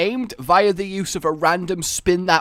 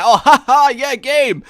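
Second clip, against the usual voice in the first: gamer voice; 9 semitones higher, 8 dB louder than usual. Retold or imitated. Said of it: "my TLDR rendition of recording".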